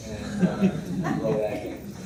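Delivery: laughing. Real, not acted. Coach laughs at opponent's error.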